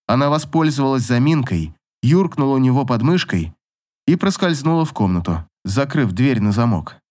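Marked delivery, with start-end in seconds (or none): none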